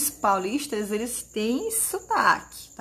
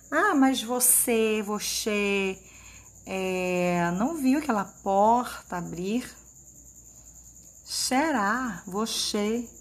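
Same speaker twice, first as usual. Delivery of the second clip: Carioca hiss; 3 dB quieter, slower than usual. Retold or imitated. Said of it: "Um pouco assim de chiadinho".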